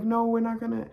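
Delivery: mock freaking out. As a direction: protest like a kid starting to panic. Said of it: "freaking out".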